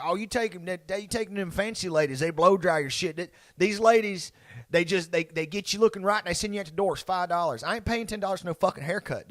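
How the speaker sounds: lightly voiced dad complaining about the price; grumbling dad. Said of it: "my dad would be like".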